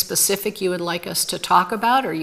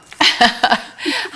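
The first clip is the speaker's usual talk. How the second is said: dry cough; 4 semitones higher than usual. Real, not acted. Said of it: "I have a cough coming in".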